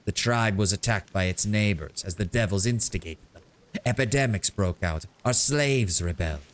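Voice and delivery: a sonorous, epic bard telling a tale; sonorous bard storytelling. Acted. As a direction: tell the tribe's saga like a bard. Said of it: "starts talking in a more sonorous voice".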